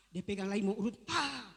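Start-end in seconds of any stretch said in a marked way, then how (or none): 1.1-1.5 mild mock cry of pain; imitated yell. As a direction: act out a brief pained "ah". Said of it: "Dia berteriak, berteriak".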